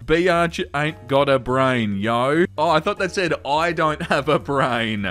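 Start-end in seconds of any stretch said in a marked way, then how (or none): 0.0-2.5 mock street slang voice. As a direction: play a cocky texter badly. Reading slangy message mock-gangster.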